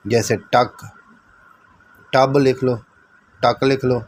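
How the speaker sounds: slow drawn-out short u in कट, शट, बट; short u examples. Shown as a demonstration. Teacher dictates short u words to students. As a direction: dictate each short u word slowly. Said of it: "फिर ये देता है".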